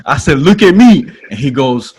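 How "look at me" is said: high, loud mock demand; playful, emphatic insistence; retold insistence. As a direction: demand attention with raised pitch and volume. Retold demand to his boss.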